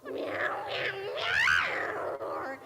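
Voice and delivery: cat meowing. Acted. Cat appears in the story.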